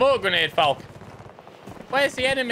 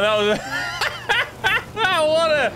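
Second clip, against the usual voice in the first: laughing while talking; 8 semitones higher, much slower than usual. Real, not acted. Laughing at the chain of events.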